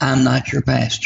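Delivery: ordinary talk, nothing marked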